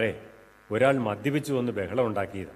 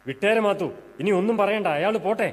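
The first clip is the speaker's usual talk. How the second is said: raised pitch, urging restraint; urgent pleading; 7 semitones higher than usual. Acted. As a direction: plead to let it drop. Breaking up a quarrel.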